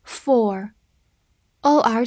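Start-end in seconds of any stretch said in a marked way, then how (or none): 1.6-2.1 "or" held as a long vowel. Shown as a demonstration. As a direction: draw out the vowel in "or". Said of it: "发长音or".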